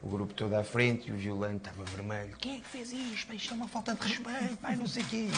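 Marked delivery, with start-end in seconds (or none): 2.4-5.3 imitating a furious coach, much higher but hushed; mock scolding from a red-faced coach; angry coach. Player mimicking the coach scolding the squad after the crash, mock angry.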